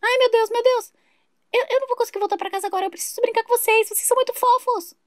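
fast, fawning neighbour who won't leave; gushing neighbour. Acted. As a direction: beg to stay and play. Vizinha não quer ir embora. (vizinha insistente e derretida)

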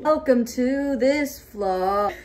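laughing. Real, not acted. Laughing intro.

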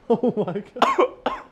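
slow high strained oh my God; after eating wasabi. Real, not acted. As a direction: drag it out in pain. Wasabi hitting hard.

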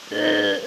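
lighter mock strain grunt; imitated grunt. Gamer mimicking the character's grunt lightly. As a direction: copy the character's noise again, half-hearted. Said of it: "ıı falan diyor".

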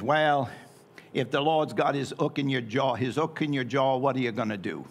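light imitation of an Australian accent; lightly put-on Australian accent, dropping the h. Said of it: "in his great Australian accent".

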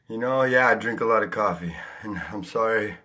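panting after a jog; winded, words between breaths. Real, not acted. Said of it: "I apologize for being out of breath right now".

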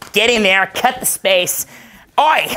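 hammed-up loud Canadian coach; loud coach impression. Canadian coach yelling orders at the students, mock loud. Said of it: "He's like".

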